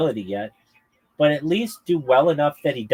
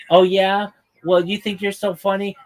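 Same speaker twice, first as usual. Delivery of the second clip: mock heckler; 7 semitones higher, 4 dB louder than usual. Acting a heckler's challenge.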